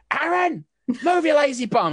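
high, loud yell to her son; mother yelling. Acted. Mother yells at lazy son in back, loud and high. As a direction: shout it up the back stairs.

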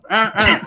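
high, short grunt in rhythm; mock grunting noise. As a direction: imitate the mouse going at it. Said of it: "Wait, what was the noise?".

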